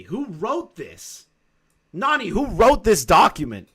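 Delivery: high, teasing disbelief; mock incredulous. Real, not acted. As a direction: pretend to be appalled. Teasing Nani about document.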